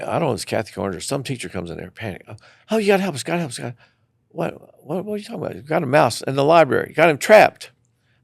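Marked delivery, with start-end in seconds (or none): 2.3-3.7 panicked plea. Retold or imitated. Panicked teacher begging for help. 4.3-7.7 excited high explaining. Retold or imitated. Teacher explains the trapped mouse.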